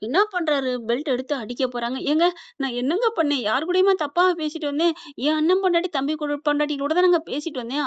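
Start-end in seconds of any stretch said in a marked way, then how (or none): 2.0-7.8 slightly raised, lightly acted tearful plea; mock tearful protest. Wife defending herself before a beating, mock tearful protest. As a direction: protest as if near tears, without real sobbing. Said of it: "அப்படின்னு அழுகுது".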